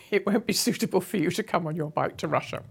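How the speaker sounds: laughing while retelling a friend's joke; laughing through quote. Retold or imitated. Friend Carol teasing about Russian visa, said laughing.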